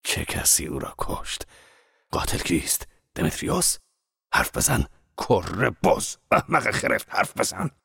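rough, harsh demand, some words breathy; menacing interrogation. Acted. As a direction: shake the truth out of him. Zorba grabs the monk's collar.

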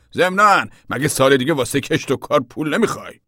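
high, loud rhetorical question; insistent, needling question; retold pointed challenge. A narrator's reading. Banker's veiled threat, retold.

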